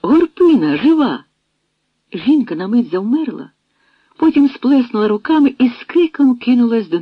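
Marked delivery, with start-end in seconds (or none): 0.0-1.2 high, louder cry of joy; overjoyed. A narrator's reading. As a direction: call out in happy relief. Yanka overjoyed at reunion.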